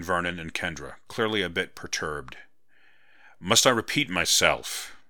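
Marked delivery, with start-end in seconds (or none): 3.4-5.0 slow, steely warning; cold steel under the politeness; slow and steely, a general not to be disobeyed; steel in his voice. Acted. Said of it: "heard steel in his voice".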